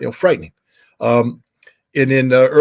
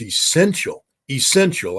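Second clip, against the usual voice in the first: "essential" said twice, the second higher; emphatic repetition; 6 semitones higher than usual. Real, not acted. Inspector insisting treaty inspections must continue, emphatic repetition of "essential". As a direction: underscore "essential" by repeating it at a higher pitch. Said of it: "need to say that and underscore it".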